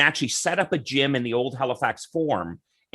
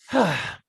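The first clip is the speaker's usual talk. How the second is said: weary sigh. Retold or imitated. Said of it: "he was like".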